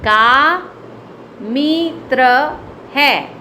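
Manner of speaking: slow model read of the sentence; slow, careful classroom read-aloud; slow demo reading. Shown as a demonstration. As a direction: read it slowly for the class to follow. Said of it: "मैं पढ़ के बताती हूँ".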